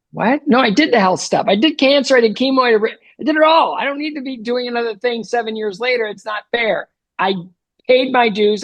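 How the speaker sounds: pushing back against the bad news; upset protest. Told of a brain tumor.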